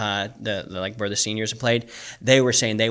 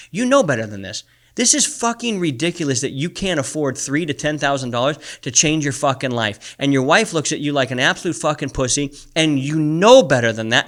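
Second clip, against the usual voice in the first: heated coach's rebuke, getting louder; tough coach; 3 semitones higher, 4 dB louder than usual. Acted. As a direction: chew them out like a hard coach, building. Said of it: "I wanna be Coach Rob to these guys".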